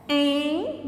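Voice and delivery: "em" drawn out as a syllable on its own; separated syllable. Shown as a demonstration. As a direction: hold "em" alone, then stop. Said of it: "Como que a gente separa?".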